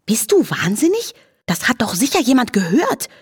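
a light horse whinny of disbelief; whinnying Charlotte. A narrator's reading. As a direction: Charlotte scolds the flea for scaring the woman. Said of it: "wieherte Charlotte".

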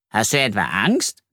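mildly surprised question; astonished question. Acted. Ralf questions the earthworm's courage, mildly astonished. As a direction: ask with a touch of disbelief. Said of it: "fragt Ralf erstaunt".

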